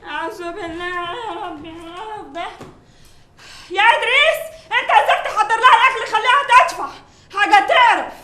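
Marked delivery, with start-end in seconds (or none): 0.0-2.4 much softer fed-up sigh of words; exasperated under breath. Acted. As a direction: grumble to yourself, worn out. Maid muttering fed up. (تمتمة متضايقة)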